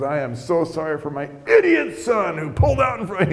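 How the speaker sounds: acted-out seething apology, biting on the insult; angry dad. Angry dad apologizing for his idiot son, exasperated. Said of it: "he is just angry".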